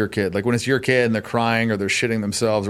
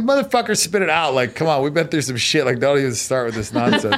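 exasperated pressing; 4 semitones higher than usual. Retold or imitated. Dan retelling how he pushed his friend, exasperated. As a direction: push a friend to spill it, half joking.

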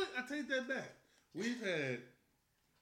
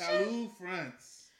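loud, slow mock French; attempted French accent; 7 dB louder, much slower than usual. Finishing the wine introduction, hammed-up French accent. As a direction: draw it out in a badly faked French accent. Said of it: "in my best".

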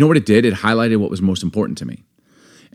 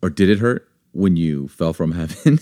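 cheesy pickup line; 3 semitones lower than usual. Acted. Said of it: "These pickup lines are terrible".

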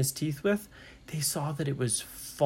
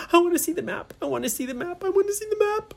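high-pitched eager squealing repetition; wildly excited; 14 semitones higher, much faster than usual. A narrator's reading. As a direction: chant it like an impatient, thrilled kid. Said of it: "Brinley was so excited".

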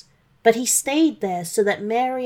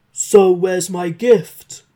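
demanding dragon; 8 dB louder, slower than usual. Acted. Dragon asking Santa for his gift, slow and loud. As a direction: lean in and ask like a greedy dragon.

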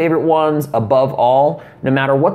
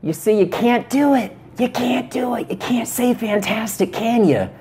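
mocking taunt; 8 semitones higher than usual. Mocking the viewer in a put-on voice.

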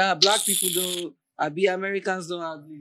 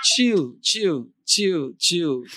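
laughing protest; 2 semitones higher, 4 dB louder, much slower than usual. Real, not acted. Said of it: "don't tarnish my image".

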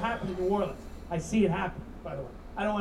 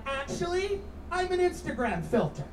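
smug millennial; 6 semitones higher than usual. Retold or imitated. Comic mimics a smug millennial.

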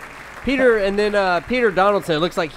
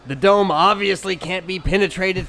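put-on Midwestern accent; 2 semitones higher, 4 dB louder than usual. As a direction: shout it in a Midwestern twang. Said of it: "Midwestern accent".

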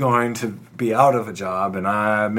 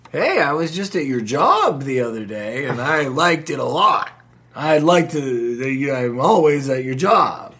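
put-on a light Irish accent, slower near the end; lightly voiced Irish relative; mock Irish accent; 3 semitones higher than usual. Creepy Irish relative greeting him, in a light Irish accent. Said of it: "was that voice you were doing, there was an accent there".

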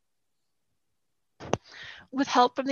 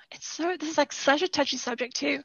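losing voice; 2 semitones higher, 3 dB quieter than usual. Real, not acted. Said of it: "I'm losing my voice a little bit there".

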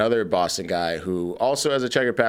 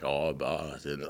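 put-on slow, low, botched Boston accent; British actor's laboured try at a Boston accent; Benedict Cumberbatch; 5 semitones lower, 9 dB quieter, much slower than usual. Mocking a British actor's attempt, bad Boston accent. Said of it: "Benedict Cumberbatch trying to do it".

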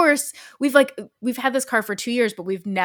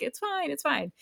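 soft, high-pitched reassurance; light, hushed imitation of soothing friends; reassuring; 6 semitones higher, 7 dB quieter than usual. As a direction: gently wave the worry away.

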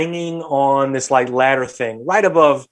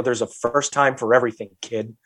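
retold dead-serious warning; 3 semitones lower than usual. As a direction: imitate a parent coolly warning a child. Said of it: "I just got a serious face".

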